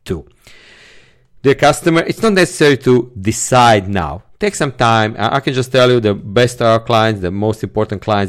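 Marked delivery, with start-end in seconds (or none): 1.4-4.2 decide now said with extra weight; stress on decide now. Shown as a demonstration. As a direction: lean on decide now inside an easygoing sentence. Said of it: "putting the emphasis on decide now".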